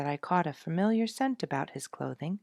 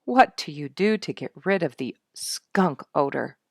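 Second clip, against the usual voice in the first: pleading; 10 dB louder than usual. A narrator's reading. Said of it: "he took on a pleading attitude".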